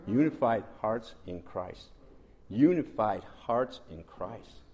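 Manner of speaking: loud, very slow, spaced-out refrain; forceful, drawn-out preaching repetition; emphatic proclamation. Real, not acted. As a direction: drive each word home slowly. Hammering the message home by repetition.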